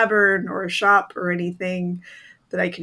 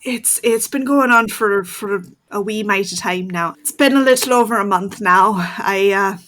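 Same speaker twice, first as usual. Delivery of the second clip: werewolf voice; 2 semitones higher, 3 dB louder than usual. Acted. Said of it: "In your werewolf voice".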